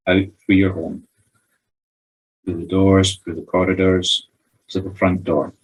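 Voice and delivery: measured meditation guide, pausing between phrases; guided meditation. Real, not acted. Medium leading sitters through breathing and a tree visualisation, guided meditation. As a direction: guide them gently step by step with long pauses.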